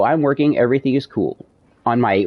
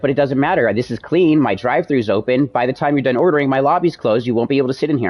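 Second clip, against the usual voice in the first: higher-pitched, insistent retold argument; insistent arguing; 4 semitones higher than usual. Worker arguing with customer over closed lobby, insistent. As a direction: argue the point, voice pitched up.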